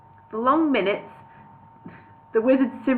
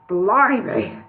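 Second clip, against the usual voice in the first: strangulated; 3 dB louder than usual. Acted. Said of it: "in a strangulated voice".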